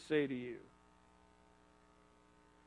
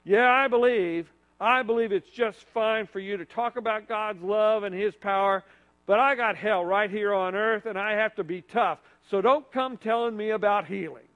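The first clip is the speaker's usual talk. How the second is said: mild angry retort. Acted. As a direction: push back a little in anger. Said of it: "He might have said it in anger".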